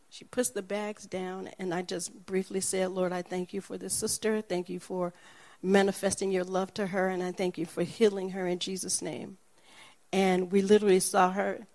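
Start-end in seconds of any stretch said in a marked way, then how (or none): 2.9-9.4 brief prayer. Retold or imitated. Brief prayer over her.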